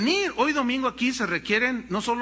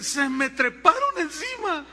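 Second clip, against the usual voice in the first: put-on girl complaining; 7 semitones higher than usual. Girl's voice.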